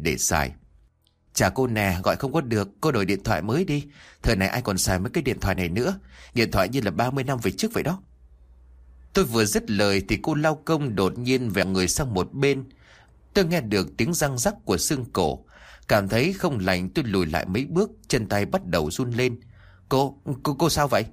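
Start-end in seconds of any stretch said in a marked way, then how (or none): 1.3-8.0 fast, dismissive grumbling; rattling off an irritated gripe; annoyed complaint. Acted. Scolding old phone, annoyed. 19.9-21.0 higher, stuttering with fear; shaky frightened question to the cleaner; frightened stammer. Acted. Frightened by neck cracking.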